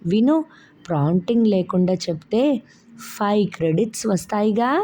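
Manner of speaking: put-on a small boy bursting to show off; excited little boy. Child Shubham runs in excited. (ఉత్సాహంగా చిన్న పిల్లాడి గొంతు)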